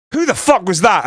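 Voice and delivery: high, indignant mock double-take; retold shock. Fan retelling turning round at a strange voice, mock shock.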